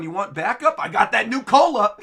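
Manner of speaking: laughing Frankie. Retold or imitated. Frankie offering backup, laughing. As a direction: ham up a joke line. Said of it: "And Frankie's going".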